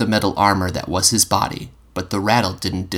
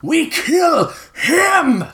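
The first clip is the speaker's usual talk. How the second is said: 1 final declaration; 3 dB louder, much slower than usual. A narrator's reading. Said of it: "stated with finality".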